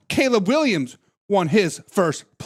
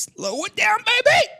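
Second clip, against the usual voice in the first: catchphrase shout; 11 semitones higher than usual. Retold or imitated. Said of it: "John says".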